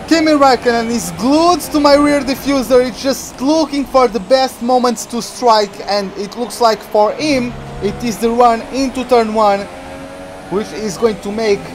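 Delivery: lively play-by-play of his own race; racing play-by-play; live race commentary. Acted. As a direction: call the race as it happens, a touch keyed up.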